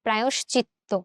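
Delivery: প্রায়শ্চিত্ত with "yo" fully sounded; full middle vowel. Shown as a demonstration. Teacher modelling the vowel, প্রায়শ্চিত্ত with its middle vowel kept. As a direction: say "pra-yosh-chitto" for প্রায়শ্চিত্ত. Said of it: "অ এর মতো".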